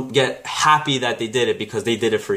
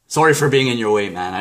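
laughing mock apology. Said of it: "This person hit me".

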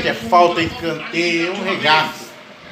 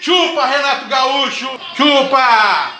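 exultant taunting yell; 6 semitones higher, slower than usual. Real, not acted. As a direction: gloat at the top of your voice. Taunts rival coach after goal. (grito de provocação eufórico)

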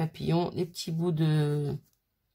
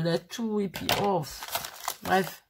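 sniffling; slower than usual. Real, not acted. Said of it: "je renifle".

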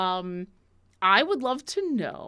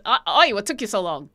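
brisk, louder pirate hail across ships; pirate calling out; 5 dB louder, faster than usual. Retold or imitated. Game master replaying the pirate captain's hail over the stone, called out. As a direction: call it out fast like a rowdy pirate. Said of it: "this other ship calling out".

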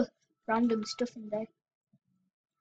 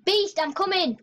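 higher-pitched call to a friend; raised, eager shout-out; 5 semitones higher than usual. Real, not acted. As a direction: call out to a teammate. Calling to friend in game.

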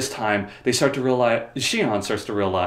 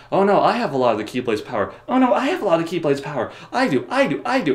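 mock squabble; 5 semitones higher, faster than usual. Two rivals fighting over who has the power, mock bickering. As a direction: pitch climbing with each bickering claim.

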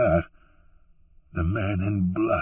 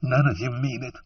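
mild, higher-pitched cry of protest; narrated woman's cry, pitched up; 5 semitones higher than usual. A narrator's reading. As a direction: cry it at him without raising the volume. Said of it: "she cried at him".

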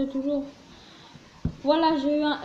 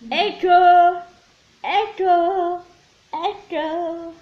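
echo effect; 3 semitones higher, 4 dB louder, much slower than usual. Pretend. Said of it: "Je fais l'Echo".

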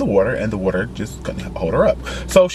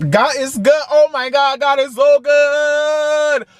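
joyful praise; 10 semitones higher than usual. Real, not acted. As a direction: praise the Lord in delight. Joy over credit card blessing.

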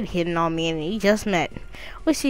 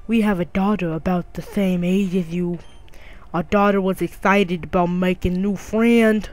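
a hint of a deeper neighbor voice. Neighbor mom introducing her daughter, in a slightly deeper voice. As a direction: lower your voice a little for the neighbor. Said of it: "make a deep voice".

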